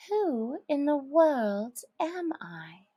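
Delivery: hushed unvoiced question; Alice whispering; whispered wonder. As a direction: breathe the question to yourself.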